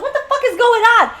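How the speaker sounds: high, loud, fast mock yell; rushed, high-pitched mock screaming; retold scream. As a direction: imitate a sister screaming in outrage. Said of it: "she's screaming at her sister".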